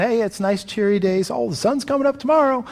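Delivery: sing-song fake cheer, rising on sun; mock cheeriness. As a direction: parody hollow optimism. Mocking shallow Christian cheerfulness.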